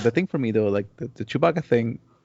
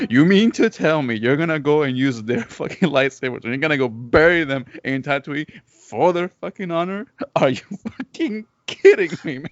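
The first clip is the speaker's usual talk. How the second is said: laughing rant; 4 semitones higher than usual. Real, not acted. Ranting about lore, laughing.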